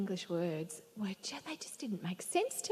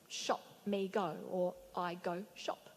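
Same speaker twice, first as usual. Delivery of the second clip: slow gloss; 3 dB quieter, slower than usual. Shown as a demonstration. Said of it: "you might sign".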